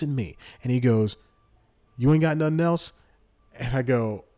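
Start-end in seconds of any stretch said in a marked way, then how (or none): 2.0-2.9 imitating the beggar. Guy asks for more money.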